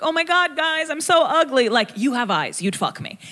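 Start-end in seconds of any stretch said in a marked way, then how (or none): 0.0-1.7 high whiny mock wail about being ugly; mock self-pity. Comic mocking herself among models, high and whiny. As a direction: pretend to despair over your looks. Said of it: "where I'm like".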